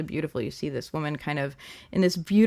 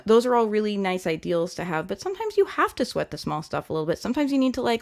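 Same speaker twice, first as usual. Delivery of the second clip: ordinary talk, nothing marked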